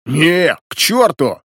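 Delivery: sharp, high indignant outburst; emotional indignation. A narrator's reading. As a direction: bristle at the offer. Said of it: "эмоционально возмущался бородатый". (эмоциональное возмущение)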